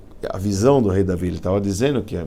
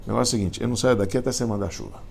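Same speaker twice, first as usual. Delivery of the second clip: a sage haggling with God, building to a shout; demanding prayer to God. Retold or imitated. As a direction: retell a stubborn sage bargaining with God. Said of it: "falava assim".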